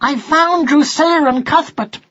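high, eager announcement; excited. A narrator's reading. Son tells Dad whom he found, excitedly. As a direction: blurt the news in a high young voice. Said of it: "said Martin excitedly".

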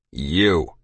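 low, cold single word. A narrator's reading. Captain facing the boy in the kitchen, cold. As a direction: drop it low and icy. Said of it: "he said in that cold voice".

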